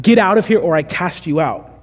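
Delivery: mildly fierce order to leave; harsh command. Acted. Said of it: "that's how harsh the language is".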